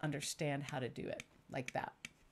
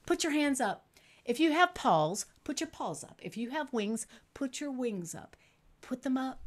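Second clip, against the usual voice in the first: higher, louder cheerful monkey puppet; bouncy monkey puppet voice, higher and louder; 5 semitones higher, 4 dB louder than usual. Acted. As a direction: excite the kids as the monkey. Monkey puppet speaks to children.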